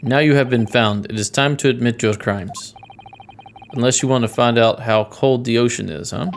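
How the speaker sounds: menacing interrogator with a badly faked Russian accent; Russian accent, demanding a confession; horrible Russian accent. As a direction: threaten in an amateur Russian accent. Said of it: "Sorry for my horrible accent".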